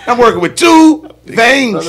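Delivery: real laughter breaking through a boast; laughing. Real, not acted. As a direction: crack up as you brag. Laughing at his own joke.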